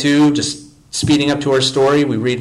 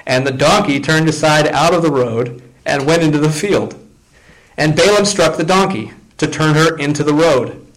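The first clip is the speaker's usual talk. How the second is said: raised, lively reading of the passage; scripture reading. Acted. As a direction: tell the story from the pulpit. Reads the passage aloud.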